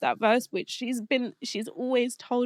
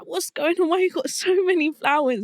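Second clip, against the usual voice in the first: puzzled mum; 8 semitones higher, 4 dB louder than usual. Retold or imitated. Mum puzzled by flower deliveries.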